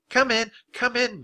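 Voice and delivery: high-pitched call, starting high and falling. A narrator's reading. Teacher calls pupils in from the doorway, calling out. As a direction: call the children inside. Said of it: "Miss Neily called from the doorway".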